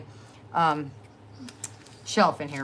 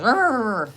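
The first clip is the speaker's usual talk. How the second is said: mock dog growl; 5 semitones higher, 6 dB louder than usual. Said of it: "She goes".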